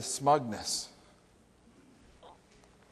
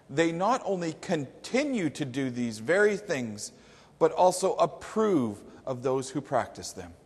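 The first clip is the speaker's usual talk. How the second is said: solemn scripture reading. Acted. Preacher reads Paul's startling conclusion to the church, solemn scripture reading. Reads the Bible verse aloud.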